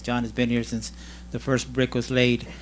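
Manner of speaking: laughing while talking. Real, not acted. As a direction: chuckle through the joke. Joking about John's long service.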